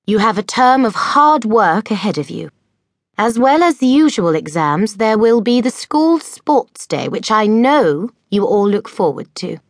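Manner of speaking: cheerful speech to the whole hall; Miss Cackle addressing school. A narrator's reading. Miss Cackle announces the term to the girls, cheerful and high.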